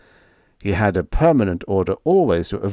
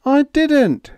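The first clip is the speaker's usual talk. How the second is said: sharp high denial, a little louder; protesting; 5 dB louder than usual. A narrator's reading. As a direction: protest it at once. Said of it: "Higgins protested".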